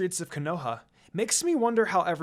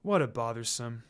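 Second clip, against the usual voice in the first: Shikamaru; 7 semitones lower than usual. Acted. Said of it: "He just smiled and said".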